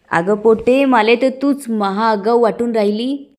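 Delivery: put-on angry aunt putting a rude girl in her place; angry retort. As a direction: tell her off, sleeves rolled up. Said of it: "त्यावर राधावहिनी चिडतात".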